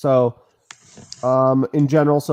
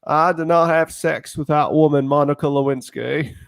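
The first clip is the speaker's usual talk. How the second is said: Bill Clinton impression. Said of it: "I could talk like President Bill Clinton".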